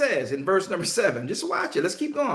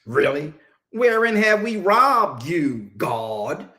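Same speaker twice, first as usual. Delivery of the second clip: mock indignation; 2 semitones lower, 3 dB louder, slower than usual. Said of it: "But then you say".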